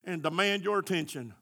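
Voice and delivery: high, loud, driving sermon voice; full-force preaching. Acted. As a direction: preach it out at the top of your voice.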